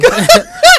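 loud high cackle; high shrieking laugh. Real, not acted. Big laugh.

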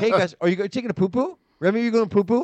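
mock-happy talk to small children; fake happy. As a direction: cheerfully ask the little kids, put on. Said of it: "I have to say it happy too".

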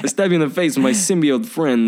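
lightly put-on New Yorker impression; a hint of mock tough-guy accent; Christopher Walken. Riffing on the actor's odd accent, lightly mimicked. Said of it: "like a young Christopher Walken".

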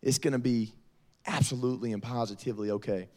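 mildly soothing retold reassurance; consoling mother. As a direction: lightly imitate mom comforting her daughter. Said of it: "consoles her and says".

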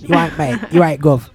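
light mock Cockney; fake London accent. Host greeting like a Cockney, fake London accent. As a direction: toss it off in put-on London. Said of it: "it's my fake London accent".

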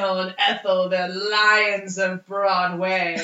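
slow, grand showbiz announcer; grand theatrical announcer. Pretend. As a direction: draw it out like a stage herald. Grandly names the Barrymore family.

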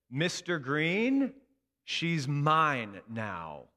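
slow, loud and firm; firm stand-off. Retold or imitated. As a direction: plant your feet and claim her. Teacher confronts angry colleague.

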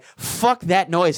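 slow, deadpan dismissal; dismissive. Retold or imitated. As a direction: drag it out, unimpressed. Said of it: "I had to be like".

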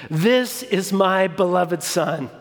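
lightly booming voice of God, slow; a touch of thunder from the sky, slowed; mildly booming God repeated; booming divine voice. Acted. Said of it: "in this booming, terrifying voice".

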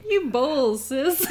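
lightly imitated brother, pitch lifting at the end; a hint of the brother's voice. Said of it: "his voice".

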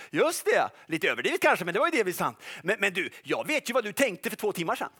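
a hint of a gloating accuser; lightly voiced devil whispering accusations; accusing devil's voice. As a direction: needle the listener mockingly. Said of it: "rösten så här".

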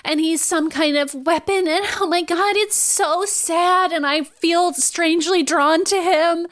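slow, lovestruck mock swoon; dreamy Jean. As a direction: sigh it like a smitten teen. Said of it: "And Jean is like".

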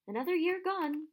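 cheerful. A narrator's reading. Dumbledore opening the end-of-year feast, cheerfully. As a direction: announce it brightly to the hall. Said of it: "Dumbledore said cheerfully".

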